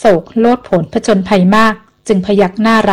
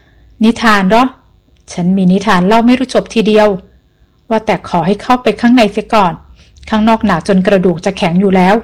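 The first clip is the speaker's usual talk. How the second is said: put-on old man shivering. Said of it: "ชายชราพูดเสียงสั่นเพราะความหนาว".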